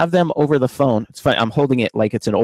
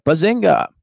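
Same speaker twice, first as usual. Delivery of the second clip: a livelier Bazinga, pitched up; imitating Alexa's Bazinga; 5 semitones higher than usual. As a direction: bounce Bazinga like a playful assistant. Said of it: "she'll be like".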